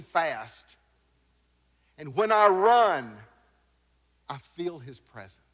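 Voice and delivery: slow earnest conviction; quoted conviction. Retold or imitated. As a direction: say it as a calm vow. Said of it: "this is a quote".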